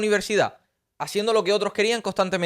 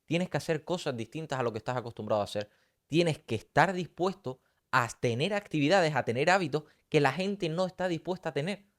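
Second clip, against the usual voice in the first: hushed key phrase; 3 semitones lower, 6 dB quieter than usual. Shown as a demonstration. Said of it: "es la frase de".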